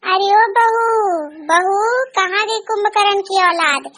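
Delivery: a hint of a nagging mother-in-law, calling and scolding. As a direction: nag the daughter-in-law for her tea. सास बहू को डांटती है. (चिढ़ी हुई सास की डांट)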